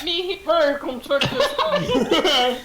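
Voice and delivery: slow, drawn-out luring call. Acted. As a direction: coax her over, loud and slow. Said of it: "make a performance".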